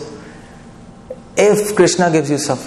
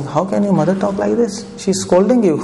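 lightly voiced wife, pitched higher; retold indignant wife; 5 semitones higher than usual. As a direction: raise the pitch a little to imitate a protesting wife. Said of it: "his wife was saying".

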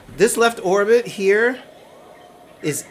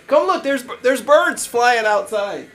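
mock calling honey; 7 semitones higher than usual. Acting out calling wife to birds.

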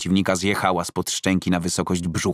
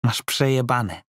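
raised, hard threat from a bald thug; a street bandit's taunting warning; menacing thug; 5 semitones higher than usual. Acted. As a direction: lean in and threaten him.

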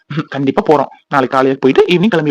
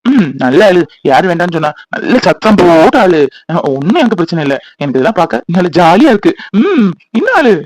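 mocking taunt. Husband taunts his crying wife.

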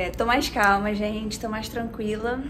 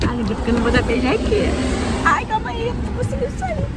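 flustered; 12 semitones higher, 3 dB louder than usual. Real, not acted. Flustered goodbye kiss in car.

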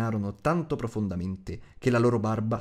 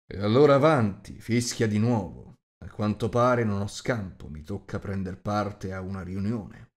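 louder, resigned host voice; a big man giving in, louder; 4 dB louder than usual. Acted. Host telling the wizard to whistle, louder and resigned.

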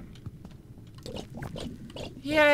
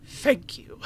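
whispered. Acted. Bug consoling the wielder in a hushed whisper. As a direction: breathe it like a secret.

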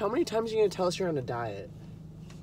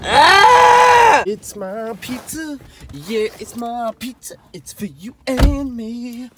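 higher, cartoonish sponge voice, slowing down; SpongeBob impression; 8 semitones higher, 11 dB louder, slower than usual. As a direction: squeal then sing-song like a cartoon sponge. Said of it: "That was a, uh, SpongeBob reference".

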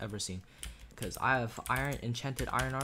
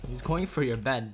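louder warning; 6 dB louder than usual. Real, not acted. Warning a teammate, repeated louder.

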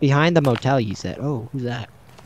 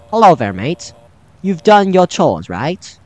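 lightly put-on British accent, louder; 2 semitones higher, 5 dB louder, slower than usual. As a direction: give the character a British "mate" voice. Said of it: "I'm saying in a British accent".

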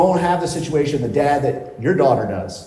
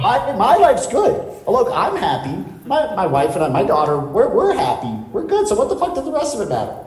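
high, breezy mock of a contented guy; a hint of a self-satisfied dad brushing it off; mock complacent client; 5 semitones higher than usual. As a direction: play the smug 'all good' client, pitched way up. Coach mocks a complacent client.

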